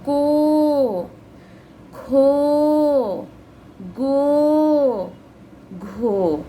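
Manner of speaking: को, खो, गो, घो each drawn out like a chant; sing-song classroom recitation of को खो गो घो; reading syllables aloud. Shown as a demonstration. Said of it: "कैसे पढ़ेंगे?".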